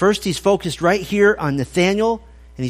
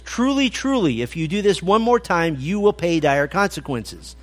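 stern parent; 2 semitones higher than usual. Pretend. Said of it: "a parent with a small child should use that phrase".

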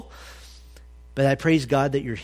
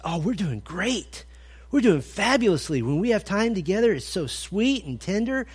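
imitating the trucker; 5 semitones higher than usual. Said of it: "He said".

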